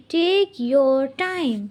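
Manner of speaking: very slow, drawn-out demo; slow model phrase. Shown as a demonstration. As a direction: lay each word out for the class. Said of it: "Take your time मतलब कि कोई जल्दी नहीं है". (बहुत धीमे, खींचकर)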